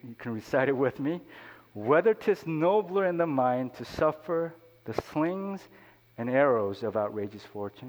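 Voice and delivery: declaimed Shakespeare, slowed in places; earnest reading of Hamlet to the congregation; poem recitation. Acted. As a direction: recite Hamlet like a stage soliloquy.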